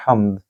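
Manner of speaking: हम्द with a throaty ह. Shown as a demonstration. Teacher showing the throaty ह, careful word. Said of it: "हा को गले से बोलिए".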